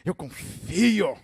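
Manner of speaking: drawn-out, showy profession of faith; mock-devout, stretched declaration; easy confident boast. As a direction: declare trust grandly from safe ground. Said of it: "Quando você tá lá em cima, terra firme".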